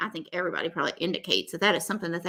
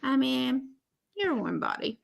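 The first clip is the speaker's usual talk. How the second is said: offhand Gino quote; 4 semitones higher, 6 dB quieter than usual. Retold or imitated. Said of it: "And Gino's like".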